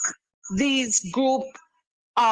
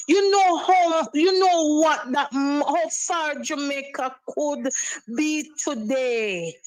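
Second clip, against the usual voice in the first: outraged. Real, not acted. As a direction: hurl the question in anger. Caller outraged.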